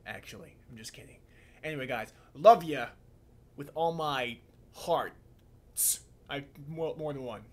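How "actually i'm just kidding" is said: much softer, thrown away; quiet aside. Real, not acted. Vlogger softly taking back a joke to viewers, quiet aside. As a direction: mumble it off.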